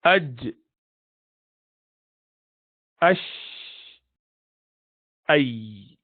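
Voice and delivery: aj, ash, ay isolated with a short vowel before each; sounding out each letter's exit point; letter sounds. Shown as a demonstration. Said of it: "these are the three letters".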